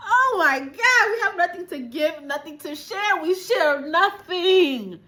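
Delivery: high, slowed repetition in disbelief; shocked disbelief. Real, not acted. Viewer stunned by the wife's greed, high disbelieving echo. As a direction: repeat her words, stunned.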